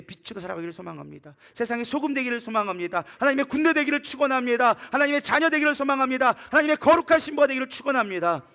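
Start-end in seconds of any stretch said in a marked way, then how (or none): 1.5-8.4 building, loud high blessings; high, ringing pulpit proclamation; full-force preaching. Real, not acted. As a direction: proclaim each blessing with rising fervor.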